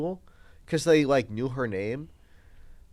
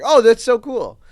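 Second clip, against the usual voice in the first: imitating an excited teen; 8 semitones higher, 12 dB louder than usual. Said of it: "he's like".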